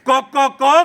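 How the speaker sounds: rhythmic imitation of a rooster's call; lightly voiced rooster refrain; crying rooster. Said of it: "कोंबो रडटा".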